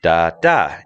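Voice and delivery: first "da" low, second "da" high; low-high beat. Shown as a demonstration. Teacher sounding out the tune, low-high. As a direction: punch the second "da" above the first. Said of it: "gonna go low, high".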